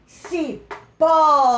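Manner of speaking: Cipós with a short Ci, a pause, then a long loud pós; Cipós in two beats, heavy on the last; stressed last syllable. Shown as a demonstration. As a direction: stretch and punch the pós of Cipós. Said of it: "última sílaba mais forte".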